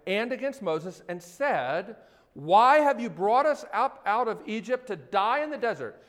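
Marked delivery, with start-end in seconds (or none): 2.3-6.0 complaining. Acted.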